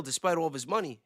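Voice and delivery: usual speaking voice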